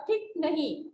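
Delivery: "ठीक" with a short i, as ठिक; short-vowel mispronunciation. Shown as a demonstration. Teacher imitating the boy's wrong vowel, short i in "ठीक". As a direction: cut the long ee in "ठीक" to a short i. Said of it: "छोटी ई की मात्राएं लगा के बोल रहा है".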